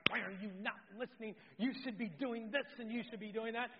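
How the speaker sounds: fast, nagging mock complaint; frustrated wife. Scene: wife after a failed lesson, fast mock nagging. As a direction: rattle off her frustration at him. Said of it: "She's like".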